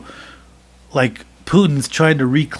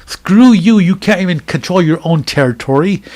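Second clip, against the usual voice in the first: louder, higher defiant jab; 3 semitones higher, 4 dB louder than usual. Pretend. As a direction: spit it back at the invader. Defiant reply repeated.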